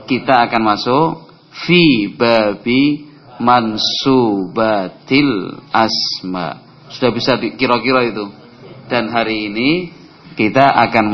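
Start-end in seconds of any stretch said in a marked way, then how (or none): 0.1-6.6 slow announcement. Shown as a demonstration. Teacher announces next chapter.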